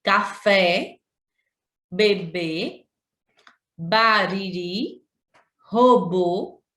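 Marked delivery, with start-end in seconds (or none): 3.8-5.0 bariri devagar, com força no ri final; slow example word. Shown as a demonstration. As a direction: bariri pausado, tônica no ri. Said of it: "a última sílaba é a mais forte". (bariri, sílaba ri mais forte)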